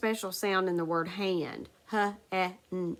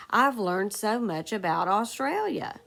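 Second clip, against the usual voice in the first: exclamatory example; 3 dB louder than usual. Shown as a demonstration. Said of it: "you've got to show strong feeling".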